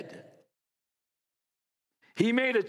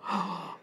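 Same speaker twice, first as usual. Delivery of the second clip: imitated gasp of outrage; hushed mock gasp; mock shocked gasp; 4 dB quieter than usual. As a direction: gasp like an offended dog lover. Mimicking shocked dog lovers.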